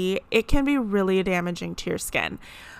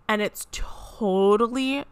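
whispering; slower than usual. Real, not acted. Whispered aside about skin.

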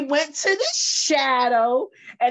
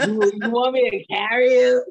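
deep raspy voice; 4 dB louder than usual. Retold or imitated. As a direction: imitate a raspy-voiced man offering help. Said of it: "With his deep, raspy voice".

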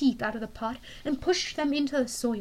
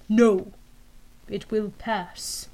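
menacing general; 3 semitones lower, much slower than usual. Acted.

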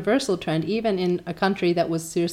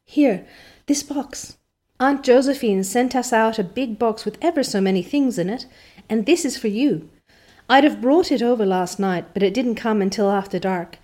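excited Diana; 3 semitones higher, 3 dB louder than usual. Acted.

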